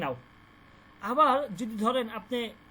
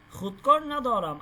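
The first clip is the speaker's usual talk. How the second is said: খুদকর না দরাম slowly, খুদকর stressed and louder; slow model phrase; 5 dB louder than usual. Shown as a demonstration. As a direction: spell the phrase out slowly for the class. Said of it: "এই যে একটা নুন চলে আসছে শুরুতে". (খুদকর না দরাম ধীরে, জোর দিয়ে)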